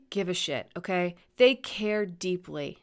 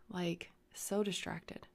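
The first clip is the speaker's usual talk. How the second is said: whispered; 11 dB quieter, slower than usual. Real, not acted. Alone at the mic, whispering how scattered she feels. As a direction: drop to a breathy whisper on the repeat. Repeating feeling, drops to whisper.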